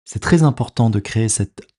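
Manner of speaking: calm, unhurried meditation guide with long pauses; measured body-scan relaxation voice, leaving space after each phrase; guided meditation. Acted. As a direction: guide the listener into rest, phrase by phrase.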